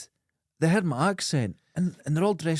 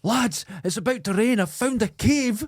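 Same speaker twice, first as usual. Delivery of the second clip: calling out; 8 semitones higher than usual. Acted. Explorer on Skull Island to the lads, acted calling out. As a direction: act out hailing the lads from a distance.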